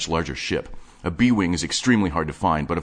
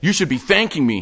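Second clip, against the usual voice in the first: higher, fast-talking obsessive geek; breathless nerdy enthusiast showing off his stash; manic collector Wade; 10 semitones higher, 5 dB louder than usual. Acted. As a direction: rattle it off like an excited hoarder. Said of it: "he continued".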